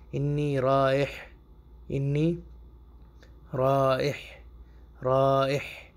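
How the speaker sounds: رائح drawn out slowly with a throaty ح; slow Arabic demo. Shown as a demonstration. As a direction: stretch رائح for the class. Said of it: "number دو". (آہستہ عربی تلفظ)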